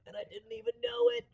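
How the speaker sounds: loud spaced-out stoner dude. Acted. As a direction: ham up a blissed-out stoner. Voicing stoned Smoke in smoke.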